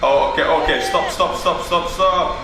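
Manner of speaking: rising urgent repeats of stop; alarmed stop. Real, not acted. Watching a crash unfold, calling out in real alarm.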